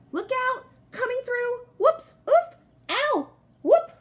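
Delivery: high, yelping cries while crashing around in the dark; frantic stumbling cries. Acted. Stumbling blindly through the dark room, high frantic yelps. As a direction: yelp your way through the dark, bumping into things.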